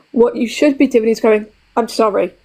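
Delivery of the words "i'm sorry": "I'm sorry" said as a complete, closed sentence; plain full-stop apology. Shown as a demonstration. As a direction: let "sorry" fall and finish, nothing after it. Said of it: "End of".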